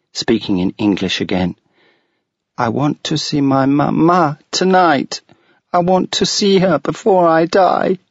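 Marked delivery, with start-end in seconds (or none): 2.6-8.0 put-on higher, pleading child getting upset; a little girl demanding her mama; angrily. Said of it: "Allegra said angrily".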